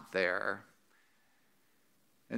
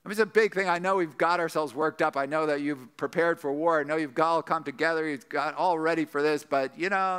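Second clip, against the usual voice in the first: higher-pitched, apologetic acted climb-down; sheepish explaining; 4 semitones higher, 4 dB louder than usual. Elders calling off the war to gathered Israel, sheepish. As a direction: talk them down awkwardly after the big build-up. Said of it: "That's a humble response that they have".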